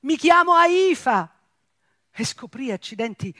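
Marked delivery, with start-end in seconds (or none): 0.0-1.4 full-voiced, high desperate yell; shouted name. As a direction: scream your name with all your breath. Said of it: "Con tutta la voce che avevo gridai".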